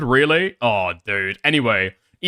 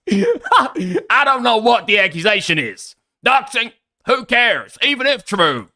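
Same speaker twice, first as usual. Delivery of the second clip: higher, louder, slow, laughing mock read; laughing mockery; 9 semitones higher, 4 dB louder, slower than usual. Streamer mocks Ralph's endorsement by rereading it, laughing and slow. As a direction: savour every word as a joke.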